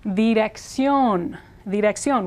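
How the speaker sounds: "Dirección" as thee-rek-SYON with tapped r; careful Spanish pronunciation. Shown as a demonstration. Teacher introduces word for address, careful Spanish sounds. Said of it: "stressed on the last syllable".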